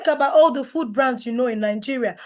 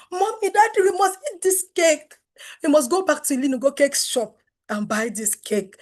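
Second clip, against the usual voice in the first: put-on excited child; 3 semitones higher than usual. Kids begging parents, retold.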